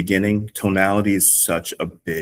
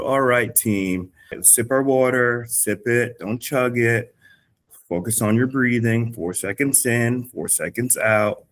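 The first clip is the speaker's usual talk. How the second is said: slow, soothing coach voice; calm recovery cue; 3 semitones higher, slower than usual. Shown as a demonstration. Coach calming the class during rest, slow and soothing. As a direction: bring their heart rates down gently.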